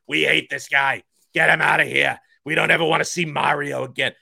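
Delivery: loud, sneering cartoon villain. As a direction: snarl it like a mustache-twirling villain. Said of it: "that's just my villain voice".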